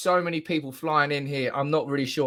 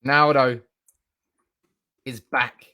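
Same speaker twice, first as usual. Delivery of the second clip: loud announcement; 4 semitones lower, 5 dB louder than usual. Real, not acted. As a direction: boom out the name, louder. Announcing transfer news excitedly.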